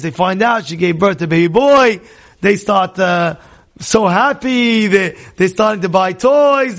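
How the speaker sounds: ordinary talk, nothing marked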